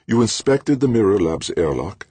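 lightly voiced older professor; older man voice. A narrator's reading. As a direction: ask it as the professor. Ulrich questioning.

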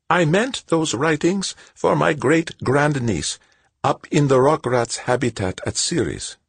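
put-on high, slow frail old woman; a gentle elderly lady, unhurried.

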